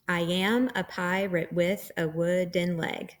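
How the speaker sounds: "I am a pirate with a wooden leg" in five weak-strong beats; measured metrical reading of "I am a pirate with a wooden leg", da-DUM five times; iambic pentameter. Shown as a demonstration. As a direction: scan "I am a pirate with a wooden leg" syllable by syllable, stressing every second one. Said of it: "This is called iambic pentameter".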